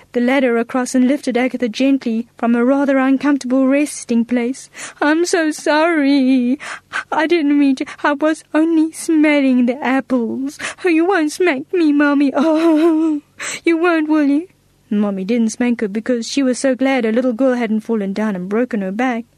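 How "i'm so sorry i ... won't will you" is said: pleading. Acted. Girl pleads not to be smacked.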